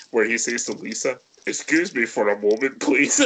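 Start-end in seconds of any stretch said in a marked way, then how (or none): 1.4-3.2 mock-polite request lifting high on "please"; respectful. Host quotes the hero excusing himself to Lisa, lightly mock-respectful. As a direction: lightly imitate a courteous man excusing himself. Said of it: "he's so respectful".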